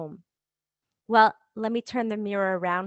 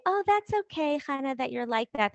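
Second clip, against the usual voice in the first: mock reassurance; 5 semitones higher than usual. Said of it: "we think that if we say".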